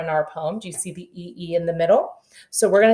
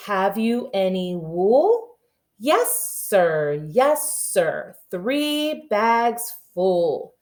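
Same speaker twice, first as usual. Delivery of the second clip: slow, sing-song nursery rhyme chant; sing-song rhyme recital; much slower than usual. Shown as a demonstration. Kindergarten teacher reciting a nursery rhyme slowly to the class.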